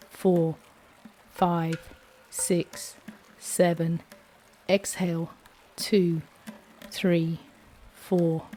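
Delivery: steady, calm counting of breaths; guided breathing count. Acted. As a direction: lead the breath count evenly.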